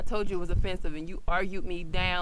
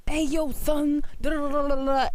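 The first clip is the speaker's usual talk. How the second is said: higher, mock impression of a Black accent; imitated Black accent; 8 semitones higher than usual. Co-host voicing a white friend's retelling, imitated Black accent. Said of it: "started doing his black impression".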